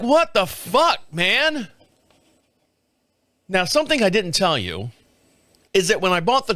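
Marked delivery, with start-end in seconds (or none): 0.0-1.7 exasperated. Retold or imitated. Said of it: "So I'm like".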